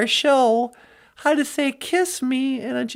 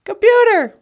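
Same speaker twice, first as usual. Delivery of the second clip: loud, higher call to the computer; mock Star Trek command; 4 semitones higher, 6 dB louder than usual. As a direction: hail the ship's computer.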